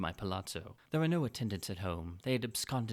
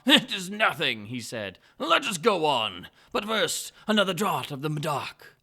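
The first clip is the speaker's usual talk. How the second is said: much higher, much louder incredulous outburst; astonished Fortunato; 7 semitones higher, 10 dB louder than usual. Acted. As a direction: cry out in disbelief, stretching impossible. Fortunato waves it off.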